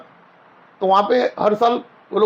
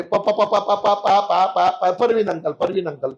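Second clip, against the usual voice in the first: imitating a stammer; 3 semitones lower, slower than usual. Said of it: "तो बोले".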